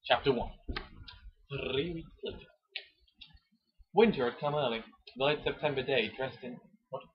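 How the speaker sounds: hammed-up dramatic reading of a romance novel; romance novel narration. Reading a Mills and Boon chapter to his co-host, mock dramatic. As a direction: read it like a breathless bodice-ripper.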